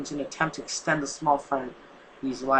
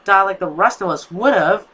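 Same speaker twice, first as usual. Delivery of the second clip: louder, higher angry yell; 4 semitones higher, 8 dB louder than usual. Acted. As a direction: yell back in the argument. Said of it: "followed by another yell".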